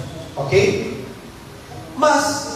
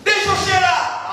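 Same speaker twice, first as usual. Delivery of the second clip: suspicious father sniffing; 10 semitones higher than usual. Retold or imitated. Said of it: "father tests the son".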